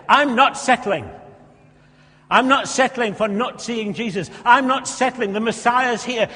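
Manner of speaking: loud, high, slow resolve; determined cry. Acted. Preacher voicing the beggar's fierce resolve, loud and slow. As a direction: refuse to settle, grab the moment.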